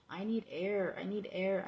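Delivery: loud urgent plea for air; loud cry. Acted. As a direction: call out desperately for air. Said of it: "but somehow managed to scream".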